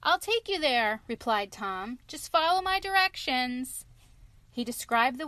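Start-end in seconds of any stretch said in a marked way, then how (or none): 0.0-1.0 put-on high, bright boy hero; small clever boy talking up to a wolf; little boy voice. Tom Thumb speaking. 2.1-3.9 put-on high, bright boy hero; small clever boy talking up to a wolf; little boy voice. Tom Thumb speaking.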